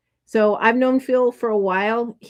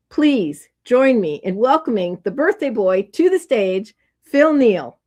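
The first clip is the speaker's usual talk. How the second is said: announcing; 4 dB louder than usual. Real, not acted. Introducing speaker to the stage.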